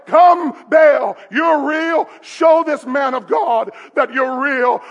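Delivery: hammed-up plea to a god; imitated pleading cry; mock crying out. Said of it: "They were crying out".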